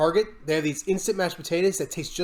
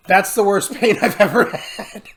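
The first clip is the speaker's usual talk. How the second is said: slow, laughing through it; a slower take broken by laughter; 3 semitones higher, 5 dB louder than usual. Real, not acted. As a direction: laugh at how bad it was. Repeats it laughing.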